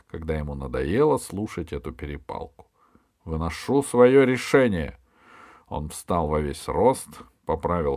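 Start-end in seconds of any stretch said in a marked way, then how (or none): 3.2-5.0 громкое высокое объявление короля; объяви властно, прекращая спор; рявканье. A narrator's reading. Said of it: "рявкнул король". (громко и властно)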